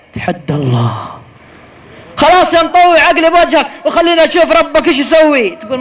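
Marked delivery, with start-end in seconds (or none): 2.2-5.5 loud, high sneering dare; mocking taunt. Reenacting the reckless driver taunting the sheikh, loud sneer. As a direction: throw the challenge back with scorn.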